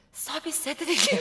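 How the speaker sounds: soft, hushed, slightly high whisper close to the ear. Retelling what the masseur said to the speaker: imitating a whisper. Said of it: "귓속말로".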